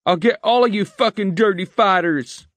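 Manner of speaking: high, loud raging yell; furious. A narrator's reading. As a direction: scream threats through tears. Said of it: "His face had gone an alarming red purple".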